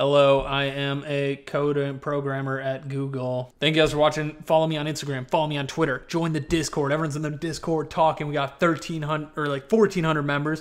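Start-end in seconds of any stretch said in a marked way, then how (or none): 0.0-3.5 clunky, very slow, drawn-out bad robot voice. Mocking programmers who talk like robots: bad robot impression. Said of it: "I'm not a good robot impressionist".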